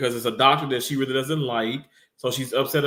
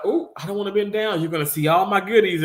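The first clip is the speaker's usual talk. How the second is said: higher, teasing imitation of her; a light, higher impression of a flirty coworker; mock flirty coworker; 6 semitones higher, faster than usual. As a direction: tease like she did, coy and playful. Voicing coworker's flirty line.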